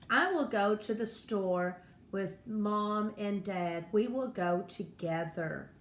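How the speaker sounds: "together" falls at the end, as a statement; telling tune, "together" settling downward. Shown as a demonstration. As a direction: state it plainly, letting "together" drop. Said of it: "notice I'm saying a statement".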